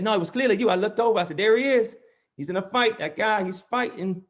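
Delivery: high-pitched, animated play-by-play of a fight; excited onlooker dad. Acted. Dad recounting his son's fight, excited and oblivious.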